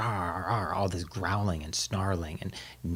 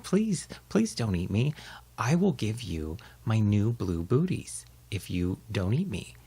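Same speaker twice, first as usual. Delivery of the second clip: pleading little dog. Acted. Baxter begs in story.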